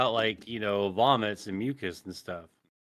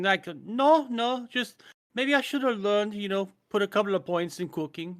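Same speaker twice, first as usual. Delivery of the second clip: Hitler impression; 5 semitones higher than usual. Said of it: "That was my Hitler impression".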